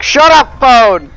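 high angry shout at the phone; yelling at phone. Real, not acted. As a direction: snap loudly at the phone.

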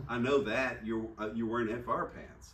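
dry, knowing jab about the pants; sarcastic. Retold or imitated. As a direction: point out the obvious with a smirk. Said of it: "I just sort of said it sarcastic".

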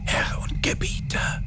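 soft unvoiced whisper; whispering quietly. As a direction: whisper it anxiously to your master. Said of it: "flüsterte er leise".

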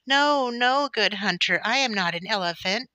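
high, loud little squeal; squealing mouse. A narrator's reading. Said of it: "squealed the mouse".

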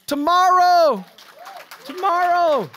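loud, high ringing "Tomorrow"; urgent cry. Acted. Preacher urging congregation about the feast, loud cry. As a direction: call it out to the back row.

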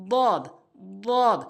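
"বদ" as Arabic dad, tongue-side on upper molars; heavy "বদ" from the side of the tongue; বদ demonstration. Shown as a demonstration. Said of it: "উপরে তালুর সঙ্গে লাগাবেন". ("বদ", জিহ্বার কিনারা মাড়ির দাঁতে লাগিয়ে)

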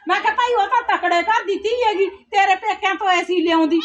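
worked-up mother-in-law grumbling; angry complaining. Acted. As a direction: justify your anger indignantly. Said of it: "ਇੰਨਾ ਗੁੱਸਾ ਕਿਉਂ ਕਰਦੇ".

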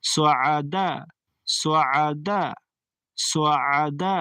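সোয়াদা with throat squeeze in the middle, long a; আইনে চাপ দিয়ে; throat-pressed ain. Shown as a demonstration. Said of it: "আইনে চাপ দিবেন".

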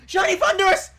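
sudden delighted call-out; excited exclamation. Real, not acted. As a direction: blurt it out, thrilled. Shiny suddenly appears.

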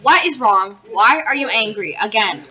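loud, high, pleading with the pet; loud fretting at an angry pet; exasperated calling out. Real, not acted. Scolding pet dog in game.

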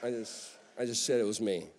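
quiet, weary, exasperated; a Jesus who's tired of repeating himself; soft exasperated sigh of a reply. Retold or imitated. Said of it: "And Jesus is like".

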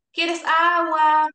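"¿Quieres agua?" slow and loud, drawn out; slow clear offer. Shown as a demonstration. Therapist slowly offering water to a patient with dementia. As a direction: stretch every word of "¿Quieres agua?". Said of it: "Ahora quizás podemos mostrarla".

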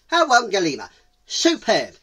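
loud, high exclamation; high-pitched triumphant cry; delighted cheetah. Acted. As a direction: seize on the word with delight.

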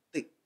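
"thick" said as "tick"; simplified learner's "thick", like "tic". Shown as a demonstration. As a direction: start "thick" with a plain T. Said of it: "giống như chữ tờ đó".

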